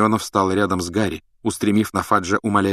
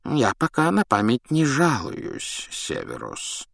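calm; 5 semitones higher, slower than usual. A narrator's reading. Dumbledore answering Snape's accusation, calm. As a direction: answer calmly, unhurried. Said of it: "спокойно отозвался Дамблдор".

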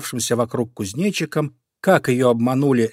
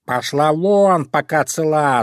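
louder, slow shouted threat; shouting cat; 4 semitones higher, 4 dB louder, slower than usual. Acted. Cat shouting the crow away, slow angry yell. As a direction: yell at her to get lost. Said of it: "закричал на неё кот Васька".

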